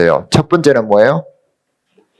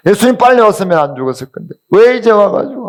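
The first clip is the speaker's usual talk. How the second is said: mock tearful reproach; 7 semitones higher than usual. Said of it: "그렇게 막 더 우는 거예요".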